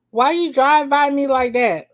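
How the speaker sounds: loud and high, pushing on drive; shouted line. Acted. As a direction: yell the question, stressing drive. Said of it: "that's how it's written".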